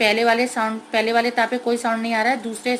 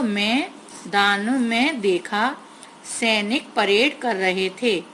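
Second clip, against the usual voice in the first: slow syllable reading; much slower than usual. Shown as a demonstration. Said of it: "मापे की मात्रा है".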